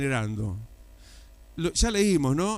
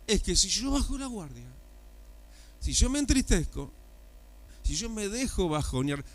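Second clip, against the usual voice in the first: ordinary talk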